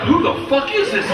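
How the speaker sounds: high-pitched, incredulous outcry; astonished onlooker. Retold or imitated. Gangsters watching his Tom Cruise pool act, astonished high cry. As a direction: squeal it in mock disbelief.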